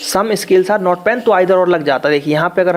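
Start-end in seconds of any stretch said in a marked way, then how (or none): 0.1-1.2 slow dictation. Shown as a demonstration. Teacher repeating the statement slowly for the class, slow dictation. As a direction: slowly spell out some scales are not pen, word by word. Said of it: "इसको अगर वो कर देते".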